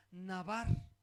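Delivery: navar, stressed on the second a; acento en la segunda A. Shown as a demonstration. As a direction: lean on the last syllable of "navar". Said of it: "igual con acento en la A, la segunda A". (navar, con acento en la segunda a)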